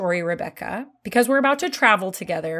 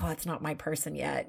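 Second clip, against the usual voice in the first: whispering; 4 semitones lower, 12 dB quieter than usual. Retold or imitated. Quoted inner thought while waiting.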